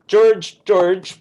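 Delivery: loud summoning call. Acted. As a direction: call him over across the room. Father calling the groom over.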